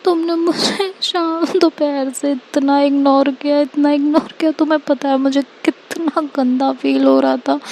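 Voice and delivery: tearful pleading. Acted. Ishika begs Tanya never to leave her, tearful and pleading. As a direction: plead like a heartbroken friend in tears. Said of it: "ऐसा बोलती है और बहुत रो रही होती है".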